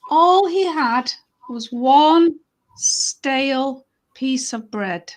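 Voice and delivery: slow, emphatic story narration; unhurried tale for children; storytelling. Acted. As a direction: linger on the key words.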